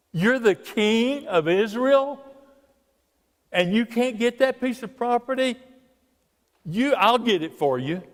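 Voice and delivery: lightly voiced queen mocking her weak husband; wife scoffing at the king, then promising, mildly hammed; mock scornful Jezebel. Jezebel scolding Ahab.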